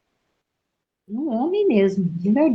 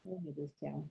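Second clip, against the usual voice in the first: very soft, low murmur of dread; retold sinking heart; 6 semitones lower, 26 dB quieter, faster than usual. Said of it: "aquele coração assim".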